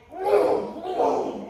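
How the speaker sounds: high, loud yelled whoa; mock whoa shout. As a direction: yell it like gunning the engine. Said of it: "do you go".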